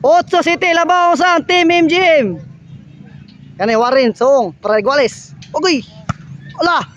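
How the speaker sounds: live play-by-play. Acted. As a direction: call the rally as it happens.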